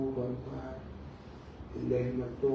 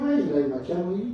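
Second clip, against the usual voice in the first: a sudden high, louder exclaim of surprise; startled by the angel's stern face; surprised; 4 semitones higher, 4 dB louder than usual. Acted. Prophet startled by the unsmiling angel, surprised high exclaim.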